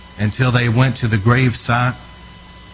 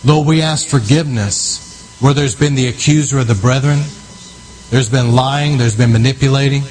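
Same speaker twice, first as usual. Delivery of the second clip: fervent prayer; 2 semitones higher than usual. Real, not acted. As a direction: pray it out with urgency and authority. Leads loud prayer over region.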